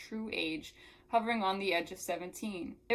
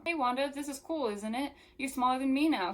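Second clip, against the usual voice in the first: put-on higher, gleeful kid brag; triumphant boy; 6 semitones higher, 3 dB louder than usual. A narrator's reading. Jamie grins at Wanda being smaller, triumphant. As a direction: tease with a triumphant grin. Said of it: "he grinned, triumphant".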